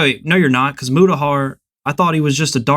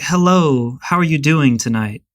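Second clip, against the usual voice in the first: prim and proper imitation white voice. Approaching a woman in the club, prim and proper white voice. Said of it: "my white voice".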